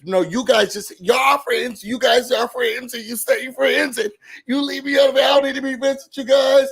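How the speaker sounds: high-pitched, quick imitation of a worked-up friend; mock upset outburst. Imitating an upset castmate pushing friends away, mock upset outburst.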